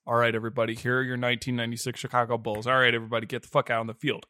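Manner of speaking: low, fast, perfunctory team introduction; offhand mock announcer. Host parodies hurried Chicago Bulls introductions, offhand mock announcer. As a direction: rush through the lineup, low and careless. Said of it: "it's like the idea where it's".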